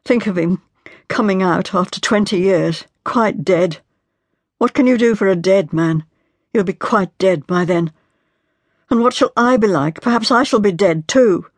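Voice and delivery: a wife breaking down as she pleads; anguished young wife. Acted. Marian continues in despair.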